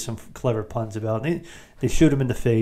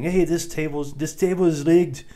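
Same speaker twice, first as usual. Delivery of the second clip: higher mock call-out; imitating Arnold; 5 semitones higher than usual. Arnold spoiling the gambling den, a higher mock accusation. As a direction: announce the rigged table like a lightly voiced Arnold. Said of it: "by saying".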